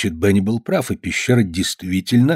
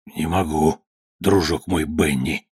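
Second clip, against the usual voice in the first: muffled answer; 7 semitones lower, 5 dB quieter, slower than usual. A narrator's reading. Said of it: "донёсся заглушенный ответ".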